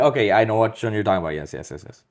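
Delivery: ordinary talk, nothing marked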